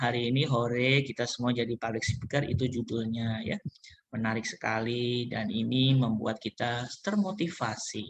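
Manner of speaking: very low, flat, dull, lifeless monotone drone. Showing how public speakers should not sound: flat, low-energy delivery. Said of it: "nggak mungkin flat gini".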